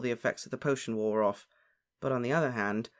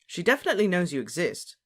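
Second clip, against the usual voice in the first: higher-pitched, puzzled protest; bewildered; 5 semitones higher, 4 dB louder than usual. A narrator's reading. Harry answers lovesick friend, bewildered. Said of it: "said Harry, bewildered".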